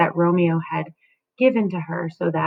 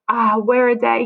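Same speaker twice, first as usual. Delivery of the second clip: wailing nurse; 4 semitones higher than usual. Acted. Nurse wailing to Juliet, a hint of a raised lament. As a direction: lightly cry out the news of death. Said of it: "She's, she's screaming out".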